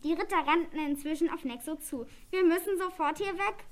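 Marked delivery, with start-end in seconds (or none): 2.3-3.6 urgent, higher and louder call. A narrator's reading. Goblin warns friends as knights charge, calling out urgently. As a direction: raise the alarm. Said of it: "rief Oskar".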